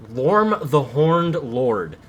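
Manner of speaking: slow, loud epic name reading; dramatic announcer. Pretend. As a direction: announce it like a villain.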